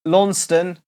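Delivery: Launceston, said as written, "LAWN-ston"; the mistaken spelling-out of Launceston; wrong pronunciation. Shown as a demonstration. Host admits his old wrong way: Launceston, as spelt. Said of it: "instead of Lanson".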